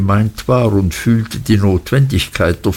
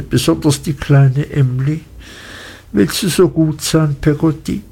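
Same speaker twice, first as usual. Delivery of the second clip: a hint of a child's voice, higher; higher, earnest little-boy request; lightly voiced pleading boy Davy; 5 semitones higher than usual. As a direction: ask as a young boy, lightly acted and pitched up.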